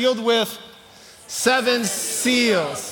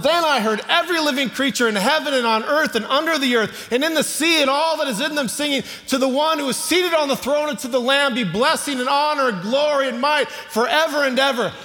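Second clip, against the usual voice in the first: higher and building, proclaiming the song; rising preaching; 4 semitones higher than usual. Acted. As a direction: lift the congregation with the hymn. Builds the heavenly song loudly.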